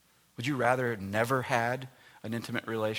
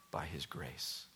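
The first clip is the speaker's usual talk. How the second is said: hushed; 7 semitones lower, 10 dB quieter, slower than usual. Real, not acted. Sermon reflective hush.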